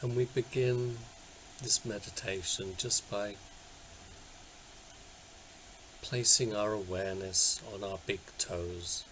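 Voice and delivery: unhurried guiding voice with long pauses; guided meditation. Acted. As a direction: gently talk listeners into settling down, leaving space between phrases. Leads a body scan meditation.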